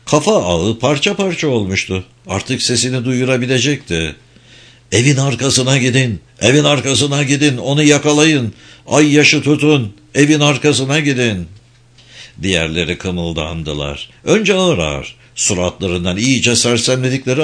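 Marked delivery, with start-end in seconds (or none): 4.9-11.5 urgent shouted orders. Acted. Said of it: "Dick'in ısrarlı emirlerinden".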